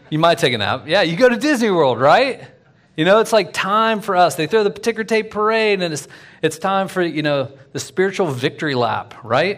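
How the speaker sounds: high and loud, eager celebration voice; a preacher hyping the victory lap, high and loud; excited riff. Real, not acted.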